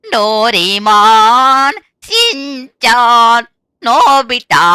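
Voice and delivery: names stretched out slowly, mocking; slow taunting roll call. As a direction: call each name like a hunter teasing prey. Killer calls out victims' names.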